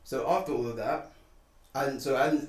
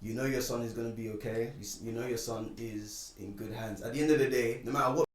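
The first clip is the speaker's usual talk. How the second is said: self-reassurance; 2 semitones lower, 5 dB quieter than usual. Retold or imitated. Retold calming talk to himself.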